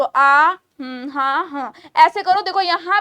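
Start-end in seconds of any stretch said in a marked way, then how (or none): 0.0-0.5 demo aah. Shown as a demonstration. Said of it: "ऐसे आ करो".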